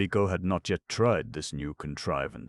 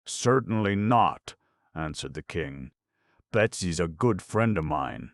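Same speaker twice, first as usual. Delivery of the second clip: firm refusal; 4 dB louder than usual. Acted. King refuses the war firmly.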